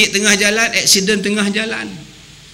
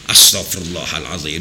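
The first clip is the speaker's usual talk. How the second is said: exasperated teacher. Retold or imitated. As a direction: groan it like a fed-up guru.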